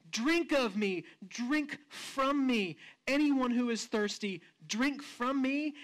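slow, stretched mock yell; retold passionate yell. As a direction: call it out over a silent crowd, held back. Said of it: "yell out at the top of his lungs".

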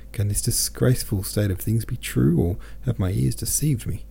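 mildly incredulous questioning tone. A narrator's reading. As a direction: ask it in understated disbelief. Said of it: "He spoke the last words in a questioning tone".

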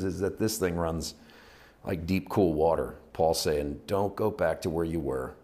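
unhurried praying with searching pauses; heartfelt prayer. Real, not acted. Preacher thanking the Father for tonight's word, heartfelt prayer. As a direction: open strongly, then settle into reflective prayer. Closing prayer addressed to God.

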